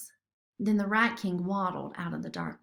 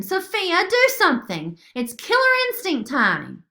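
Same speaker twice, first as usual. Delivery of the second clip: high, loud and frantic; panicked, loud call for action; urgent plea; 10 semitones higher, 7 dB louder than usual. Acted. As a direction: beg for help right now. Urgent plea during fight.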